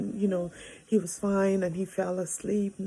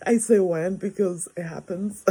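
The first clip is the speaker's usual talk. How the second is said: laughing aside; 7 dB louder than usual. Real, not acted. Laughing aside about hitting.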